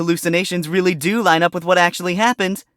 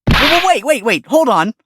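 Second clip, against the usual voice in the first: urgent pleading; 4 semitones higher, 5 dB louder than usual. Acted. Stopping judge from penalty.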